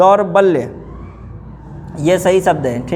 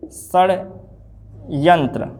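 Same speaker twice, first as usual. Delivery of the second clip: षड्यंत्र stretched out, shad-yan-tra; slow dictation; 2 semitones lower, much slower than usual. Shown as a demonstration. Teacher correcting a spelling, slowly sounding it. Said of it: "षड्यंत्र लिखा है ये".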